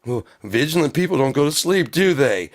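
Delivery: mocking rant. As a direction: throw it out as an angry taunt. Same rant, mock question.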